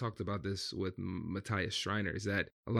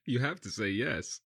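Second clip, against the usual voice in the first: amused, with a laugh breaking in; laughing answer; 3 semitones higher than usual. Real, not acted. Interviewee conceding to the negotiator's yes-or-no question, laughing.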